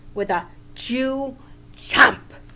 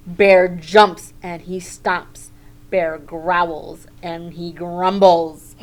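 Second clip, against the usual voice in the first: growly narration; 2 semitones lower, 7 dB louder than usual. A narrator's reading. Reading bear waking angrily.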